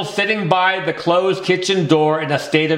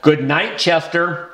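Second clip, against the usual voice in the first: calmer. Acted. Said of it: "and then more calmly".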